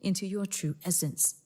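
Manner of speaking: measured, welcoming podcast announcer; podcast intro read. Acted. Host welcomes listeners to the meditation podcast, scripted intro read. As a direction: introduce the show in deliberate, separated phrases.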